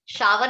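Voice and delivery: शावर said the common way, two syllables, sha-ver; the wrong शावर, full "sha-wer"; teacher showing the mistake; wrong shower. Shown as a demonstration. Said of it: "शावर नहीं बोलते".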